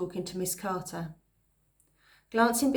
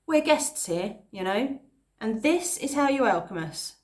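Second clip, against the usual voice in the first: indignant; 3 semitones higher, 4 dB louder than usual. Acted. Esther confronts the bully.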